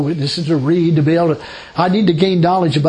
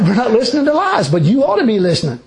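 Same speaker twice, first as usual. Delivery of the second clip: laughing; 5 semitones higher than usual. Real, not acted. Laughing while retelling retort.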